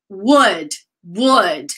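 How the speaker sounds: "would" said singly, falling, for repetition; modelling would. Shown as a demonstration. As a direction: give "would" as a word to repeat. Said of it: "Guys, repeat".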